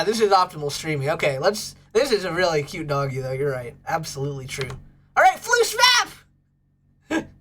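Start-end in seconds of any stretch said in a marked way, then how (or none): 5.2-7.3 much higher, louder, slow stretched announcement; drawn-out announcer hype. Acted. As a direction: stretch the name like a ring announcer. Hyping the next pet.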